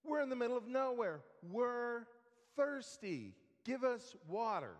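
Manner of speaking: hammed-up whiny demand; imitated whining. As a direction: mimic a grumbling crowd pestering its leader. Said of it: "they're whining to Moses".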